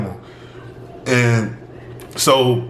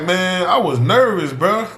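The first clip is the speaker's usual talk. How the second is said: retold excuse, pitched up; nervous protest; 6 semitones higher than usual. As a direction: plead nerves in a higher voice. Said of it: "this is exactly how I'm talking to these people".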